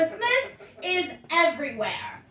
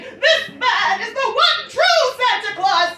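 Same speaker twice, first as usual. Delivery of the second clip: slow, louder, higher courtroom proclamation; movie lawyer's big speech; 7 semitones higher, 6 dB louder than usual. Retold or imitated. Lawyer announcing to court, slow grand proclamation. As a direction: proclaim it like a dramatic movie climax. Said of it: "he's saying".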